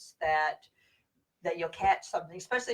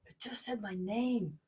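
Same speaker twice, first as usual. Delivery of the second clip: amazed; 5 semitones higher, slower than usual. Retold or imitated. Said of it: "they're like".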